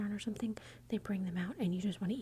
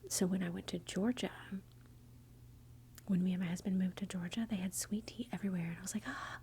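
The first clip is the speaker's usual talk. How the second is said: hushed, breathy whisper; ASMR whisper. Real, not acted. Whispers the whole video.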